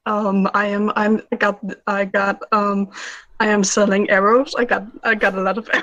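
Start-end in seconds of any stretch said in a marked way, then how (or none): 4.6-5.8 fast, laughing half-shout. Real, not acted. Player laughing at her own arrow bluff, fast half-shout. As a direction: blurt it out through laughter.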